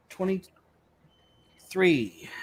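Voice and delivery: whispered under the breath; whispering. Real, not acted. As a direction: count it under your breath. Counting a dice roll to himself.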